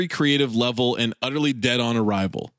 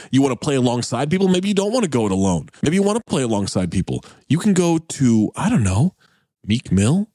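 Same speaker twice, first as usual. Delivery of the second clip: upbeat, punchy sponsor read, a touch louder; 4 dB louder than usual. Acted. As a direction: sell it like a podcast host ad spot. Host reads a sponsor ad.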